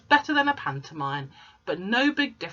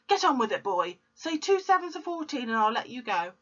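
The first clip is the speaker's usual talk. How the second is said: angry shout; 5 semitones higher than usual. Acted. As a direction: yell the threat. Shouting at dangling boy.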